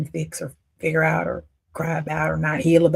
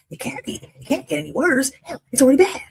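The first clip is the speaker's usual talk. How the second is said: exasperated protest; 9 semitones higher, 5 dB louder than usual. Retold or imitated. Protesting to the pastor.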